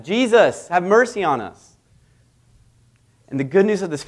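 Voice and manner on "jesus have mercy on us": lepers crying out, higher and louder; mock yell. Lepers call out to Jesus for mercy, in a loud yell. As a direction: call out to a passing healer. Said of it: "all of them start yelling at him".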